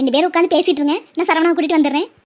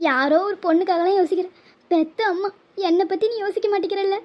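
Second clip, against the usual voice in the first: softer and softer through tears; fading sob; 4 dB quieter than usual. Acted. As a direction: trail off weeping to her son. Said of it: "முதல்ல அழுகையை நிப்பாட்டுங்க". (கண்ணீருடன் மெதுவாக மறையும் குரல்)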